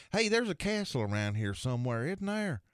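high, naive tourist question; Bobby's put-on innocence. Buddy asking the secretary about a castle, high clueless voice. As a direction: lift it high, feigning cluelessness. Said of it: "he was just putting it on for this guy".

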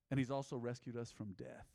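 hushed, breathy whisper. Real, not acted. Preacher whispering the good news to the church. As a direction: lean in and whisper it. Sudden drop in sermon.

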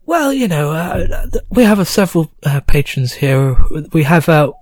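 sly, chatty barkeep; goblin landlady. Acted. Landlady answers about Gorlak.

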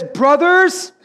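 loud, high, drawn-out preacher's cry; Peter. Acted. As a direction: proclaim it slowly to a vast crowd. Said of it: "with a loud voice".

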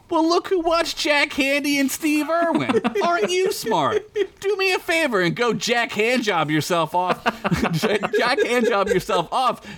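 high sarcastic taunt; mock snarky retort. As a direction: sneer at the smart aleck. Narrator mocks a know-it-all listener.

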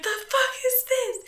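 high-pitched imitation of a boisterous old lady; older smoker impression. Older coworker demanding an explanation, mimicked in a high voice. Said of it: "That's what she sounded like".

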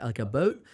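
"boat" with a long oh for "about"; in-between Canadian vowel. Shown as a demonstration. Showing co-host the Canadian sound, "about" as "a boat". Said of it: "It's somewhere in between".

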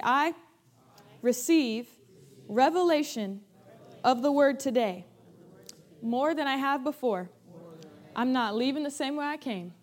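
measured declaration, pausing for them to echo; repeat-after-me declaration. Shown as a demonstration. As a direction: lead the congregation phrase by phrase. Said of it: "actually say this after me".

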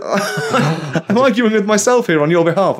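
words broken by a real laugh; amused, laughing aloud at herself; laughing while talking. Real, not acted. Laughs at own retelling.

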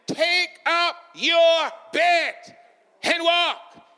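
Jesus ordering the lame man to walk; slow commanding shout. Acted. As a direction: hold each word out like an order. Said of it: "he told an impotent man".

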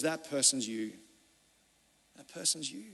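low, soft, grave verdict; quiet confrontation. Retold or imitated. Prophet Nathan confronting King David, hushed and grave. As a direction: drop it to a hush and let it sink in.

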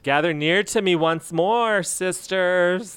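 slow, grand, drawn-out proclamation; dramatic tagline delivery. Pretend. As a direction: announce it like a solemn rallying call. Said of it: "That's my tagline".

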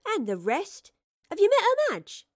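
put-on an eager girl's high-pitched prying; eager questioning. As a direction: voice leaping high and loud. Eager girl questions the spy.

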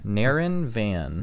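"Naren Van" slowly, each word drawn out; slow, careful repeat. Shown as a demonstration. Joke teller clarifying the comedian's name, slow "Naren Van".

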